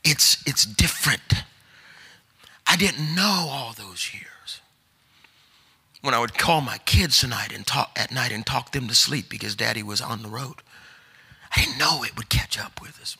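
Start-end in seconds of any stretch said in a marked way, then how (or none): 2.6-4.6 barely voiced, slow and breathless; hushed confession. Real, not acted. Confessing regret softly mid-sermon. 11.5-13.1 hushed confession. Real, not acted. Confessing regret softly mid-sermon.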